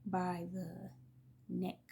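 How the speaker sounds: unvoiced whisper of by the neck. Real, not acted. Whispering to viewers how the uncle held her sister. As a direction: let it fall to a horrified hush. Hushed horror detail.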